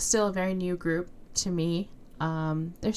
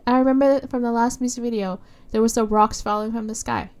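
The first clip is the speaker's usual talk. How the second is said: excited; 4 semitones higher, 6 dB louder than usual. Real, not acted. Excited theory before pressing play.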